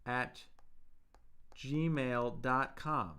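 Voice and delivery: gmail dot com said very slowly, word by word; slow, spelled out. Shown as a demonstration. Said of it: "please email me at".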